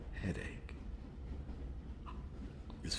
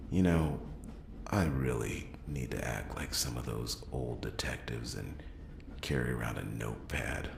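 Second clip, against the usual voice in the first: raised voice, exasperated; 2 semitones lower than usual. Acted. Louder frustrated rant.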